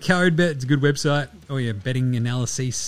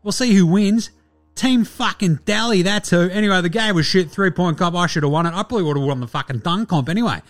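brash, indignant guest reviewer, often pitched up; lively, sweary, self-promoting sports rant; Delly; 4 semitones higher than usual. Acted. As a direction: rant like a cocky player snubbed from the contest. Voices Delly's guest review segment.

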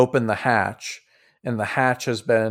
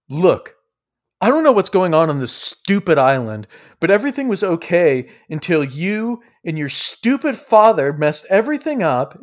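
acted fuming, pitched up; very angry Sidroy; 5 semitones higher than usual. Sidroy rounds on Silas after being toppled, angry. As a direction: scold with heated emphasis, not shouting. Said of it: "he gets up very angry".

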